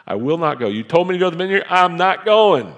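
loud, high, stubborn no; defiant refusal. Retold or imitated. Pastor acting out refusing God's call, loud and defiant. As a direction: dig in your heels and refuse.

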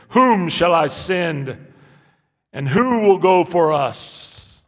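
slow, loud, drawn-out divine voice; booming voice of God. Retold or imitated. Pastor voicing God to the church, slow and loud. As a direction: intone it like God on high. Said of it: "I don't know if he talks like that".

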